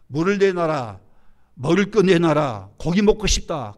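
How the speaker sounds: demanding complaint. Acted. Israelites pestering Moses for water and food, demanding complaint. Voices the people's constant complaints.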